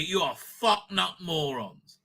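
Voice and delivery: slow, spaced-out scorn; slow contemptuous insult. Real, not acted. A final insult to the producers, slow and scornful. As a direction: spell out the insult word by word.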